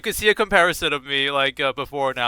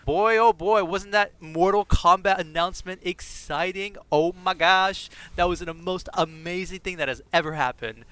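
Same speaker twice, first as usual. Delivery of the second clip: mock excitement; 4 semitones higher than usual. Mock hype over announcement.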